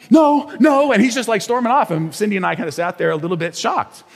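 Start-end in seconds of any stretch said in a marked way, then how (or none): 0.1-0.9 retold refusal. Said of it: "And he's like".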